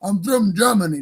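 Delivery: lightly put-on German accent; drawn-out mock German accent at the start. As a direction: imitate someone claiming German roots, in a German accent. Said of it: "German accent".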